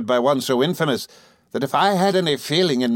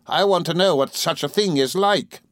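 Rosa Dartle, taunting; 7 semitones higher than usual. A narrator's reading. Rosa taunting the runaway girl, scornful. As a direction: heap cold taunts on her. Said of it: "on whom she heaped these taunts".

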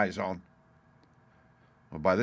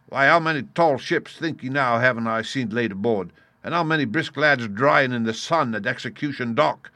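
loud, raised pirate harangue; indignant cry; 4 semitones higher, 7 dB louder than usual. A narrator's reading. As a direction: hurl rhetorical questions at the crew. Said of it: "cried Silver".

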